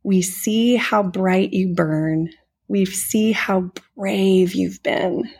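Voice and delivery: slow, gentle recitation; recited lyric. Retold or imitated. Retelling the family's song to Mirabel, slow and gentle. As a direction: speak the lyric slowly and tenderly. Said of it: "they sing to Abuela".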